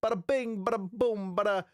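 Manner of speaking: bada bing in a lightly hammed Brooklyn accent; Brooklyn wiseguy. Playing a Brooklyn wiseguy for his viewers, in a Brooklyn accent. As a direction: toss off the catchphrase like a Brooklyn mobster. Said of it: "what's with the Brooklyn accent?".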